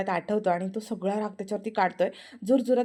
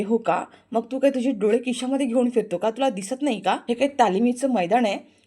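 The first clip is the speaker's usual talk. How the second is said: sarcastic taunt; 2 semitones higher, 5 dB louder than usual. Acted. Aarti mocks him sarcastically.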